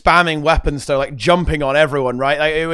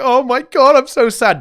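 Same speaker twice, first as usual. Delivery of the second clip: mock wail; 10 semitones higher, 6 dB louder than usual. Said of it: "everyone else was like".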